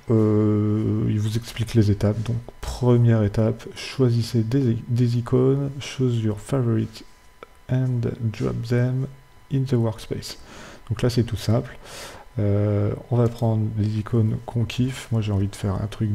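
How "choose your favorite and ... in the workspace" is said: slow English words with a thick French accent. Real, not acted. Tutorial host reads English on-screen instructions, in a heavy French accent. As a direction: read the English text slowly in a strong French accent. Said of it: "j'ai un super accent anglais".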